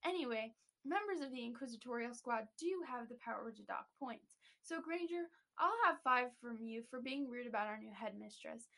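a hint of a smug bully, laughing near the end; lightly voiced Draco. Podcaster reads Draco's points speech to listeners, lightly smug. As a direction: read the taunt with light mock smugness. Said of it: "I'm gonna read it for you guys".

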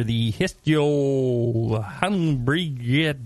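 Hestjo Hambriget slowly sounded out; backwards speech. Real, not acted. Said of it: "it sounds like I'm speaking backwards".

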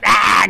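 quick burst of a yell; acted battle yell. Wrestler acting out charging into King of the Ring, mock yell.

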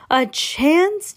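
high, outraged squawk; mock yell. A narrator's reading. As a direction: yell it in storybook disbelief. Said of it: "yelled Missus Salt".

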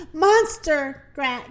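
lightly acted breathless gasp; winded warning, mildly acted. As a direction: get it out between gasps, cut short. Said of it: "gasped Bee as they ran".

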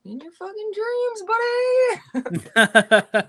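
high then loud drawn-out comeback, laughing; mock comeback. Player firing back at teammates who chirp her, slow and laughing. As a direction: fire it back, mocking them.

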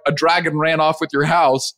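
offhand, matter-of-fact report; casual neighbor. Retold or imitated. Neighbor tells husband the house is gone, very casually. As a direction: toss it off as no big deal. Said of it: "very casually".

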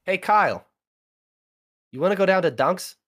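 loud, high put-on Boston accent calling a buddy; Boston bro voice hollering at Kyle. A friend calling a buddy out for coffee, in a loud Boston accent. Acting out a Boston sentence example.

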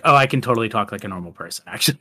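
low, quick, casual aside; lightly imitated human-sounding threat; Megan, normal voice. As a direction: drop the doll act, talk offhandedly. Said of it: "just threatening someone, she's like".

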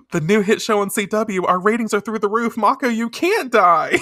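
high, loud mock plea; dramatic plea. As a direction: ham up the plea with a shout. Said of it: "she says".

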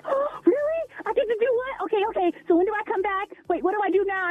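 retold eager, tumbling questions; excited. Caller replaying her questions at jury duty, excited. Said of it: "I was so excited".

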